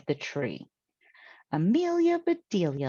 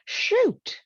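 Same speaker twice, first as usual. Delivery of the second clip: high, sharp little exclamation of annoyance; a cry of dismay at the falling balls; frustrated shoot; 4 dB louder than usual. Acted. Amelia Bedelia, balls rolling off the tree, cries out higher in dismay.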